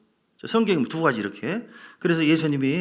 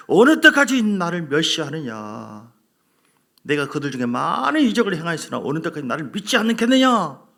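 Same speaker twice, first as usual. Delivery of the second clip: angry God; 4 dB louder than usual. Acted. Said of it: "열을 받으셔가지고".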